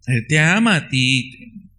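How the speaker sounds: "Él te ama a ti" repeated slowly, each word weighed; slow it down to land it; slow, deliberate repeat of "Él te ama a ti"; slow emphatic. Shown as a demonstration. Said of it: "repeated slower for emphasis".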